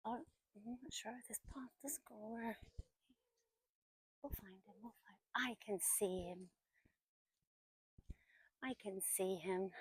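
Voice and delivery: hushed whisper, breath only. Real, not acted. Filming quietly, sneaking near people.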